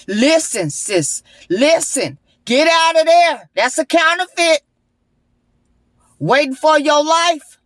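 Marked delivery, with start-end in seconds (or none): 2.4-4.6 urgent warning. Real, not acted. Urging listener to leave.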